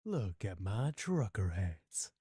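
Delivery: slow redneck drawl; hillbilly accent. Acted. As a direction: drag it out in a hillbilly twang. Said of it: "like, a hillbilly redneck accent".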